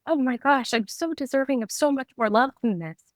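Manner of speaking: a touch of tearful pitch, not really crying; half-relived tearful vow to herself; retold sobbing. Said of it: "I just started sobbing".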